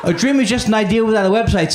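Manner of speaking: fast, tossed-off slogan; rushed ad read. Retold or imitated. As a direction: rattle the slogan off quickly. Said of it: "That's what Squarespace says".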